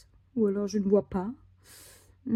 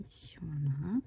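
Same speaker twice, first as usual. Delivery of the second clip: whisper; 4 semitones lower, 5 dB quieter than usual. Real, not acted. Scratching ticket, murmuring to self.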